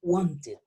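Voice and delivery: "Wanted" said wan-tid, falling. Shown as a demonstration. Teacher repeating the model word, ID ending. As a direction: end "Wanted" in a short -id. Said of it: "van a sonar como I D".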